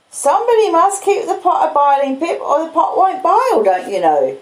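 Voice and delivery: Joe the blacksmith. Acted. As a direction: speak as simple, proud Joe. Joe voiced in the story.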